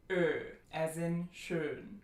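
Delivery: ö slow and lip-rounded, as in schön; long tense ö. Shown as a demonstration. Teacher placing the vowel, long tense ö in schön. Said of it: "lots of tension here for this vowel".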